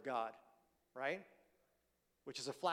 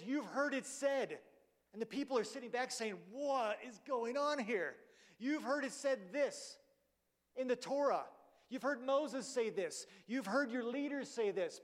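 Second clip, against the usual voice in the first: raised, slow, proclaiming each line to the crowd; preaching Jesus; 5 semitones higher than usual. Acted. Jesus addressing the crowd on the mount, raised slow proclamation. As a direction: announce it like the giver of the law.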